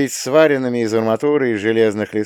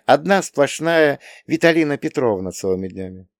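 put-on higher young woman's voice, gently teasing; Vitalina voiced; 6 semitones higher than usual. A narrator's reading. Young woman reassures the lieutenant, higher voice. Female character voiced by narrator.

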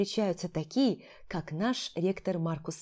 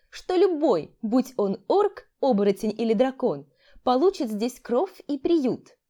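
put-on eager young student; 4 semitones higher, 3 dB louder than usual. Graduate student eagerly takes over.

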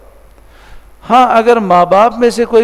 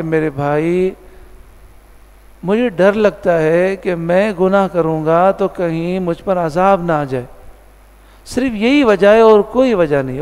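retold gentle plea. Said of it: "بڑے پیار سے کہا".

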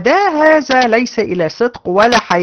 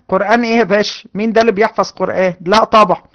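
captive playing dumb; faster than usual. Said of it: "واحد مثلًا مسكوه".

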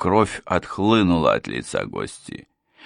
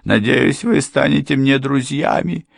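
much higher, louder, ingratiating plea; fawning plea; 10 semitones higher, 6 dB louder than usual. A narrator's reading. Housekeeper begging Ford and Miss Trevick, high and fawning. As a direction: throw yourself on their mercy. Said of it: "housekeeper begs for mercy".

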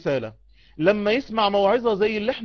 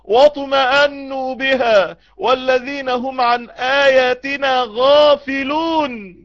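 Quran recitation. Acted. Preacher reciting the verse to the congregation, slow chant. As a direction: intone the verse slowly.

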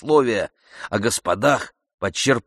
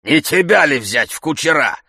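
wheezing retort; 7 semitones higher, 7 dB louder than usual. A narrator's reading. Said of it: "захрипел Захар".

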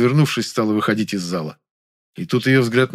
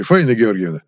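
"Фаина Георгиевна" called out loud and reproachfully; name her loudly, with reproach; 5 dB louder than usual. Acted. Director loudly reproaching the actress, calling "Фаина Георгиевна".

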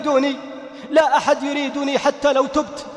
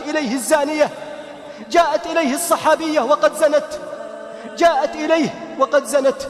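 impassioned preaching. Acted. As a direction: rebuke the whole family like a preacher. Preaching reproach to listeners. (وعظ حماسي بصوت مرتفع)

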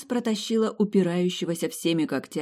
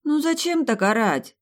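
yawned, higher complaint; yawning; 8 semitones higher, 4 dB louder than usual. Acted. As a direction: say it through a yawn. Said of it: "зевнула я".

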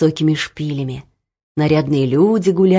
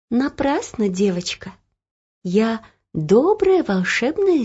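reassuring; 4 semitones higher than usual. Acted. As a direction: soothe a scared child. Kind mirror reassures girl.

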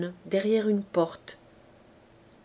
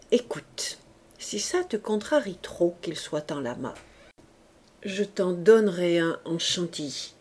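tired voice; 4 semitones lower than usual. Acted. Young man wearily appeasing his angry mistress, tired voice. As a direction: sigh it out, just wanting peace. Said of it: "d'une voix fatiguée, en homme qui désire la paix".

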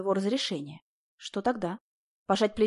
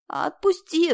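мольба; 9 semitones higher, 4 dB louder, much slower than usual. A narrator's reading. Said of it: "взмолилась она".

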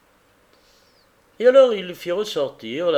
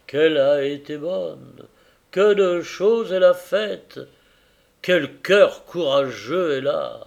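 earnest husband pouring out his regret; a man blaming himself for his blindness; grieving carrier; 5 dB louder than usual. Acted. Carrier tells Tackleton of his wife's sorrow, earnest and grieving.

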